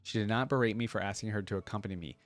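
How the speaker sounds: steady storybook reading voice; story narration. Acted. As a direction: read it like a gentle love letter. Reads lore letter aloud.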